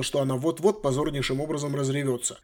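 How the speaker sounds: usual speaking voice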